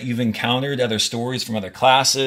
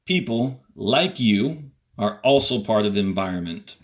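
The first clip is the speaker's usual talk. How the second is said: reading aloud to class. Acted. Teacher reading the passage to students, clear and measured. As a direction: read each sentence out for students.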